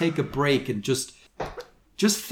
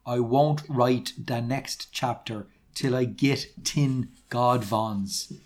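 slow, deliberate read-aloud of misspelt words; author's note reading; much slower than usual. A narrator's reading. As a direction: spell it out slowly, word by word.

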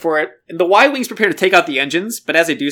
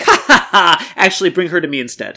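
loud cackling villain; mock villain laugh; 3 dB louder than usual. Voicing villain.

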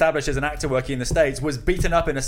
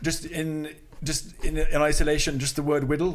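mock olde english; 3 dB quieter than usual. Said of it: "Is that what Derek Jacobi sounds like?".

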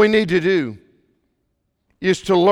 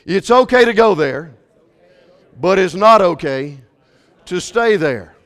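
louder, chanted together with the crowd; call-and-response line; 2 semitones higher, 5 dB louder than usual. Shown as a demonstration. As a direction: lead the congregation through the phrase. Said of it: "Everybody say it with me".

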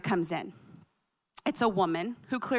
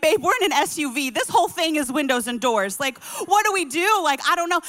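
retold panic; 4 semitones higher, 5 dB louder than usual. Panicking at husband in story.

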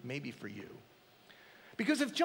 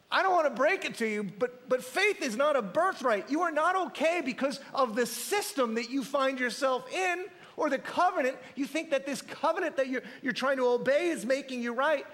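raised, rapid, pressing the point home; urgent preaching; 5 semitones higher than usual. Real, not acted. Preacher warning the congregation, rising urgent voice. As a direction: push it hard, voice climbing.

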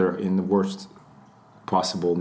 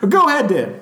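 high-pitched imitation of gruff permission; relenting Southerner; 6 dB louder than usual. Southern celebrity realizing it's a fan, relenting. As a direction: play a celebrity grudgingly letting a fan speak. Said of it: "the frown kind of, like, released".

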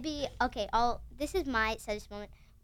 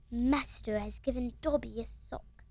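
lightly voiced house-elf with a put-on British accent; a hint of an awed little elf; Dobby voice. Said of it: "learned to do that Dobby voice".

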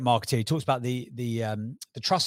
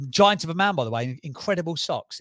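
ordinary talk, nothing marked

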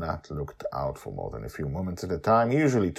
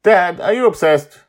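put-on girl's voice; 13 semitones higher, 11 dB louder than usual. Daughter voiced in story.

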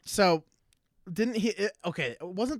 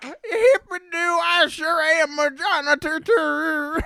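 goofy high voice; 12 semitones higher, 5 dB louder, slower than usual. Acted. Silly voices riffing on movie.

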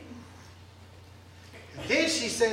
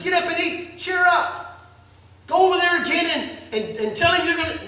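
bossy wife; 5 semitones higher, 4 dB louder than usual. Acted. Jezebel ordering her husband.

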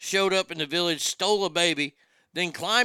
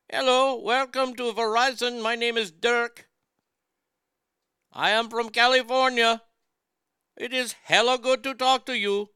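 Dirk voice; 8 semitones higher than usual. Pretend. Verizon call center worker greets a caller in a higher surfer voice. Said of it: "I did it in the Dirk voice".

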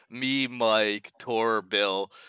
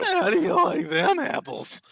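high, loud, slow mock Boston accent; hammed-up Boston accent, drawn out; Matt Damon; 13 semitones higher, 7 dB louder than usual. Podcaster echoing a film line, hammed-up Boston accent. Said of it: "you got the same accent from him".

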